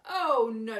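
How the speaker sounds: sudden loud outburst; loud declaration. A narrator's reading. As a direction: blast it at the ants. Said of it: "declared the highway thief".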